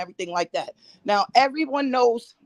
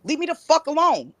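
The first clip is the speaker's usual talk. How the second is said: raised, furious demand; angry; 4 semitones higher than usual. Real, not acted. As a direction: tell her off hard. Shouting at her accuser.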